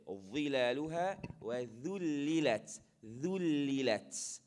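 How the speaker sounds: وذللت with a light, thin ذ; light dhal. Shown as a demonstration. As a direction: keep the ذ in ذللت thin, no wu sound. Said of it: "This one is light".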